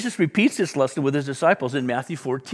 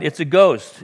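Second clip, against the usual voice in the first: frightened cry; 3 semitones higher, 8 dB louder, slower than usual. Retold or imitated. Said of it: "they were terrified".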